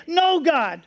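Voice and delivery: impassioned cries, short of a real scream; acted screaming prayer. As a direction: beg urgently, each plea starting high. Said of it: "we scream every day".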